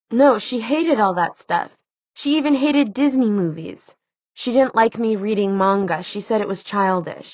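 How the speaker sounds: put-on young woman's voice. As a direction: protest it like a teenager. Clary's voice, dismissive.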